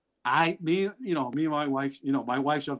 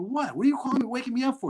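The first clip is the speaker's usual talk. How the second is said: high, irritated woken-up father; mock grumpy dad; 9 semitones higher, faster than usual. Son calls at three, father answers high and irritated. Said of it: "I go".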